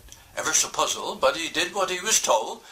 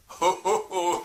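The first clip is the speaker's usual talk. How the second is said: owl chuckle; 2 semitones higher than usual. Acted. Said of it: "said Doctor Owl".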